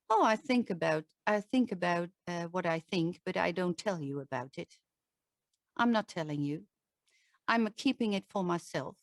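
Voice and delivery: low and withdrawn, barely moving the jaw; closed-off. Shown as a demonstration. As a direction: hold it all back, jaw tight. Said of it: "If I'm not moving my jaw".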